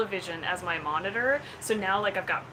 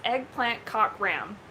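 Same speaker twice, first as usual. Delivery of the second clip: slow announcing; slower than usual. Pretend. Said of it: "Simon Says".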